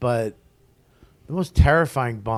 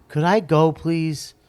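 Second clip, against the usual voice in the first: higher-pitched mild plea; pleading; 5 semitones higher, 5 dB louder, slower than usual. Retold or imitated. Stranded comic asking a woman to let him leave, mildly pleading. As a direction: lightly re-enact asking to be let go.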